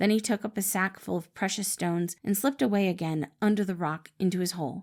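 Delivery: ordinary delivery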